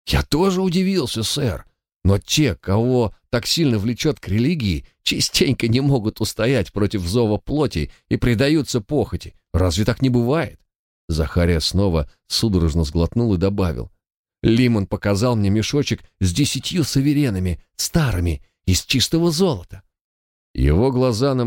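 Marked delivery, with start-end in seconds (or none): 0.1-10.6 put-on higher, anxious young man voice; a frightened guard pleading his case; nervous young guard. 14.4-19.8 put-on higher, anxious young man voice; a frightened guard pleading his case; nervous young guard.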